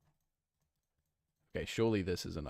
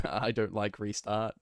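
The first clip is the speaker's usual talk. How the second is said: Dracula-Arnold voice; 4 dB louder than usual. Pretend. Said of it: "mix Dracula from Hotel Transylvania with Arnold".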